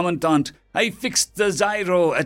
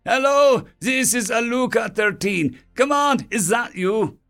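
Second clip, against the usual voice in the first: high, raised radio hail; calling over radio; 11 semitones higher, 3 dB louder than usual. Acted. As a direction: call out hoping someone hears you. Engineer calling over failing radio.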